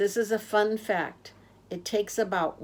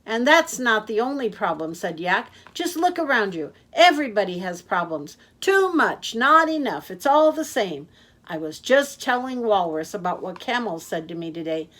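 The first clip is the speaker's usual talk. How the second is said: a cheerful blabbermouth who never stops; loud chatty Yak; 7 dB louder, faster than usual. Acted. Yak rambling on.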